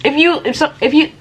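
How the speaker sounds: breathless stumbling; words run out of air; out of breath. Real, not acted. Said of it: "let me catch my breath".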